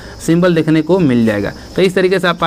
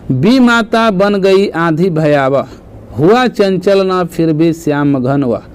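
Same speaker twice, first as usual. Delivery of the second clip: slow, measured verse reading; verse recitation; slower than usual. Acted. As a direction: recite the example line slowly, word by word. Reads out verse example. (धीमा काव्य-पाठ)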